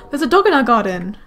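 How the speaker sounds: real surprise at the dog; excited gasp. Real, not acted. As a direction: gasp like you've spotted a stray. Spots dog in garden.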